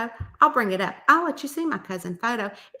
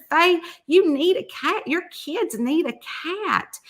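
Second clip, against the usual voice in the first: slow, higher-pitched persuasion; acted insistent coaxing; 5 semitones higher, slower than usual. Retelling talking a friend into a cat, insistent. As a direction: lean on each word to win her over.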